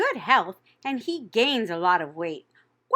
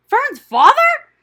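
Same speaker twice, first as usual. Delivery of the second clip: high wailing sob, slow; sobbing; 13 dB louder, slower than usual. A narrator's reading. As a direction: wail it out in tears. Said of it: "sobbed Wilbur".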